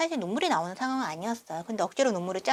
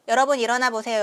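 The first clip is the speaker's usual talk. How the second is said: louder, rousing call to sleeping passengers; louder call to wake everyone up; 6 dB louder than usual. Retold or imitated. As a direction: call out to wake the whole cabin. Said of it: "나머지 네 명을 다 깨웠어요".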